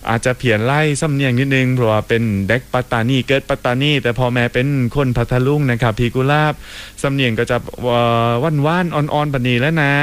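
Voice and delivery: talking in his Pattani-Phattalung southern Thai accent. Shown as a demonstration. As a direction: ease into a mild southern Thai lilt for the listener. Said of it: "อยากฟังน้องโอ๊ตแรงตายนาฟังหมาก". (พูดสำเนียงใต้เบาๆ ตามคำขอผู้ฟัง)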